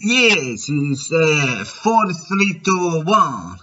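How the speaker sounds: put-on slow Mexican-accented numbers. Prank caller slowly giving a fake number in a Mexican accent. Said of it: "My Mexican accent is all over the place".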